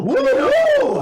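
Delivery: train whistle whoop. Pretend. Train noise echoed.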